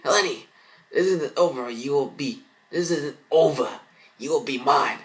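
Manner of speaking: high, loud menacing villain voice; villain threat. Acted. Mirror villain threatening Lenny, high and loud. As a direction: threaten her from inside the mirror.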